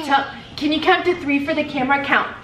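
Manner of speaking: bright coaxing mom voice. Real, not acted. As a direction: encourage her gently to count. Mom coaxing toddler on camera.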